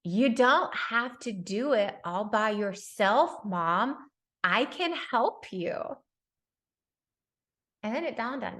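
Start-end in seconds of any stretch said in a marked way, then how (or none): 0.0-5.7 put-on sincere child. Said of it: "And he said".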